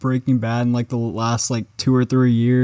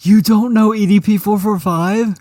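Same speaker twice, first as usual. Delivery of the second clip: much higher, louder, exaggerated shock; hammed-up incredulous meme voice; mock disbelief; 8 semitones higher, 5 dB louder than usual. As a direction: act outraged he doesn't know. Mock outrage at ignorance.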